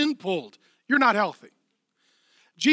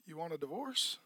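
stunned news; 4 semitones lower, 15 dB quieter than usual. Retold or imitated. Hearing grim news, quietly.

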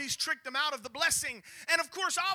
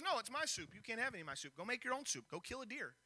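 bratty refusal; 11 dB quieter than usual. Retold or imitated. Brother refusing to share soup.

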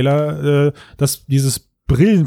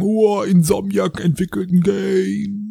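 mock amazement; 7 semitones higher, slower than usual. Mock quote of outsiders.

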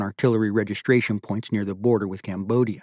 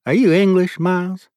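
raised, louder voice of an inquest colonel; stern colonel; 9 semitones higher, 7 dB louder than usual. A narrator's reading. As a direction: question him like a board president. Colonel questions lieutenant at inquest.

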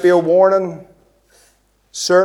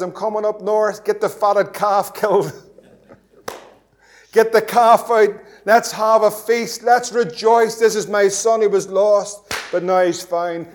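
bright, raised, joyful voice with a laugh; a friend on the phone, thrilled, calling for a feast; excited announcement; 3 semitones higher than usual. Retold or imitated. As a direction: announce the homecoming feast gleefully. Jay phoning, excited about feast.

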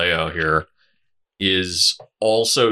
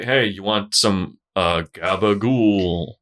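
put-on Jersey Italian accent; 3 semitones lower, slower than usual. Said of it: "I'm just shocked he didn't say".

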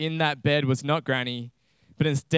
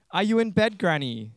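put-on higher little-girl call, dropping at the end; 4 semitones higher than usual. Red Riding Hood calls to Granny on arriving, girlish call. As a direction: call out lightly as a young girl. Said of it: "she called".

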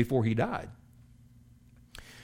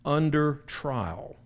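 slow, deliberate reading of the verse; measured pulpit reading of scripture. Acted. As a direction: read it out like holy writ. Preacher reads scripture slowly.

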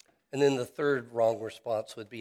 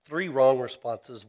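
slow and loud, leaning on wrong; emphatic stress; 9 dB louder than usual. Real, not acted. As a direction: punch the word wrong, slowly and loudly. Preacher emphasizing main point.

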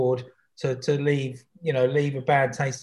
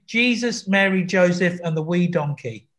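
Northern Irish saying; slower than usual. Shown as a demonstration. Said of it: "can you say".

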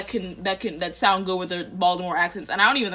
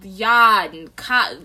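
mocking Boston accent with dropped r's; brief mock Boston accent; 4 dB louder, much slower than usual. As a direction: imitate Boston broad open vowels. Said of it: "Oh, a Boston accent?".

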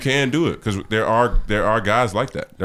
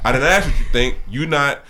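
harsh director; 3 semitones higher, 4 dB louder than usual. Retold or imitated. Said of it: "this is an acting role".

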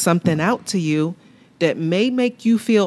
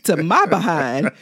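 sassy warning. Retold or imitated. Wife warning a stranger who crossed the six-foot line, sassy. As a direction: tell off the close stranger with a grin. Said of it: "I got a reason to say".

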